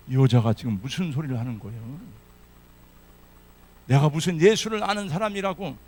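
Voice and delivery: indignant denial, a bit loud; defensive Peter. Acted. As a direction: brush off the accusation. Peter denies, acted.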